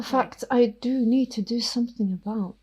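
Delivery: hushed, menacing vampire whisper; whispering vampire Ophelia. Acted. Ophelia the vampire threatens Miss York, whispering.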